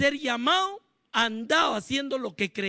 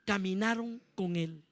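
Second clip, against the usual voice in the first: softer, falling stress on caminaron; soft emphasis; 3 semitones lower, 5 dB quieter than usual. Real, not acted. Preacher pointing out the walking, softly. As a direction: drop the voice on caminaron con él. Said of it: "lo que quiero que note es que".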